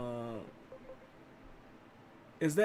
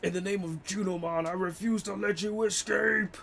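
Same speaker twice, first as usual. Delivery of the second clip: lady voice; 4 semitones higher than usual. Acted. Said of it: "That's my best lady voice".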